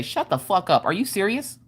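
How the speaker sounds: hushed disbelief, imitating the office lady; shocked office lady. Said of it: "literally said it just like that".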